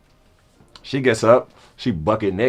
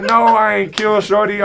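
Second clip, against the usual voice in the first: high-pitched disbelieving protest; retold panic; 10 semitones higher than usual. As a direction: act out alarm, voice way up. Retells panic she had died.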